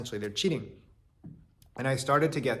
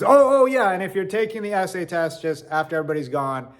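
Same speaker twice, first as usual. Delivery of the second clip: professor remembering; 6 semitones higher, 4 dB louder than usual. Retold or imitated. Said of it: "He says".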